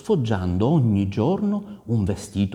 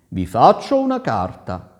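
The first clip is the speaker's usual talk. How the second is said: raised, projected promise; reassuring prince; 5 semitones higher, 5 dB louder than usual. A narrator's reading. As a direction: assure the wife firmly, a little higher and louder. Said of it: "la rassicurò il Reuzzo". (principe che rassicura, a voce alta)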